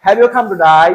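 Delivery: laughing mock Australian drawl; "today" said like "to die" in an Australian voice; mock Australian accent. Teacher joking about how Australians sound to students, mock Australian. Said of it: "তুই কি মরতে আইছস".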